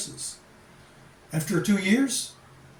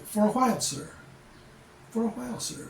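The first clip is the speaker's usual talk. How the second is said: polite Filipina nurse; 5 semitones higher than usual. Retold or imitated. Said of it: "They'll say".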